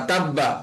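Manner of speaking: তাব্বা with the ব held and said twice; doubled consonant. Shown as a demonstration. Teacher shows students the doubled ব in তাব্বা. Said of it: "দুইবার আওয়াজ করে মিলিয়ে পড়তে হবে".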